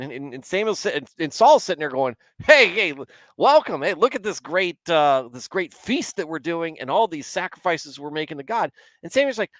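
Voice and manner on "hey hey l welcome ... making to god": bright, high and loud, showing off the feast; eager proud welcome. Acted. Saul greeting Samuel, proudly showing off his sacrifices, high, eager welcome. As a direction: cheerfully greet the prophet as if all is well.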